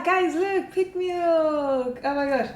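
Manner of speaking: high, loud excited showing-off. Real, not acted. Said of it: "I'm so excited".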